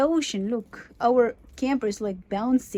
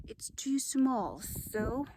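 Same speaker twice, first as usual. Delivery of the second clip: whispering; 3 semitones lower, 12 dB quieter than usual. Real, not acted. Whispering while husband rests.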